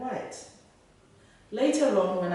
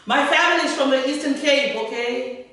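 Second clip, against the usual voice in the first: loud, higher-pitched insistence; raised voice; 7 semitones higher, 9 dB louder than usual. A narrator's reading. Martin answers the doubting immigration officer, raising his voice. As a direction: push back with voice raised. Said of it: "raising his voice".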